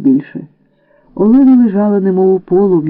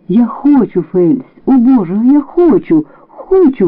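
bursting out; 5 semitones higher than usual. Acted. She finally confesses her love to Fels, crying out. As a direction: let the confession tear out of her. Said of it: "вирвалося з її уст".

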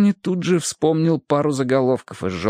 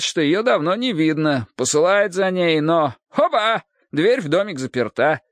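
higher, lurid lively gossip; brash storytelling cop; 5 semitones higher than usual. Acted. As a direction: build the gory tale with relish. Hardwick tells the murder. (развязно, смакуя подробности)

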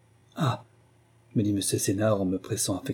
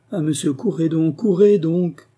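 high, insistent cry, building louder; urgent pleading; 6 semitones higher, 5 dB louder than usual. Acted. Servant urges the curé to run, alarmed cry. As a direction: urge him on, rising in alarm.

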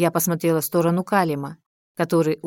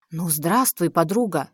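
plain reading voice

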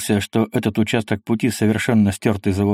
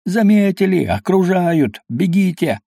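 panicked yelling; 7 semitones higher than usual. Acted. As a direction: scream it in panic, much higher. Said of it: "панический страх уже вопил".

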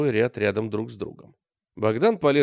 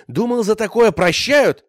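much louder and higher, raging; furious shout; 10 semitones higher, 10 dB louder than usual. A narrator's reading. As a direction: yell the accusation. Bogdan furious at the Cossack. (яростный крик)

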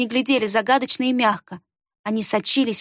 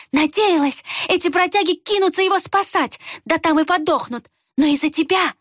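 raging; 7 semitones higher than usual. A narrator's reading. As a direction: rage at them. Рукс raging at wanderers. (в ярости, высоко и громко)

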